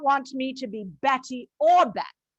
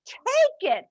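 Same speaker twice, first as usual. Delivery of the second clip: retold snap; 9 semitones higher than usual. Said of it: "he snapped".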